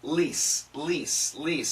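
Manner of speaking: lease with a long ee and a soft s. Shown as a demonstration. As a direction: say lease as in athletes said quickly. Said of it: "the quicker we say it, it sounds like".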